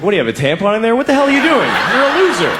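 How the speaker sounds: mocking girl. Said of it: "She's like".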